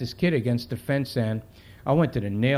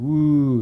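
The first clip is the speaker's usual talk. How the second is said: drawn-out, louder "woo"; imitated crowd woo; 5 dB louder than usual. Crowd reacting to the cop's threat, imitated wooing. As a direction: mimic an onlooking crowd's woo. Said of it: "People start going".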